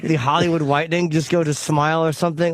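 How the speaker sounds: tight-toothed put-on articulation; teeth held still. Showing the co-hosts his new character, stationary-teeth voice. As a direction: talk with only the lips moving. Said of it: "really talk like this for only my lips are moving".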